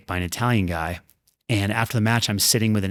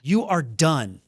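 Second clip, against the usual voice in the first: higher-pitched imagined voice of the body; mock ultimatum, pitched up; body's verdict; 6 semitones higher, slower than usual. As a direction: lightly voice the body calling a halt. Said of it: "my body said".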